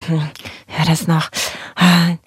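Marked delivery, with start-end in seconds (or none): none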